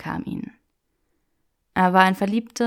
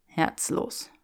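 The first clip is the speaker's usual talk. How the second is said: snorted; 4 dB quieter than usual. Acted. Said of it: "schnaubte Draco".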